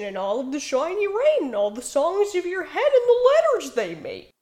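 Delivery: lightly voiced dreamy cat sprite; a hint of a whimsical sprite; Jasper Sprite voice. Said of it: "That was my Jasper Sprice voice".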